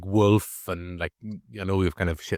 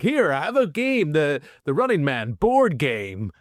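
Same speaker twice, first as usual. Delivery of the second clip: higher, slow cheesy host voice; game show host; 5 semitones higher, slower than usual. Retold or imitated. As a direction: hand over the prize like a hammy TV host. Game show host handing out prize.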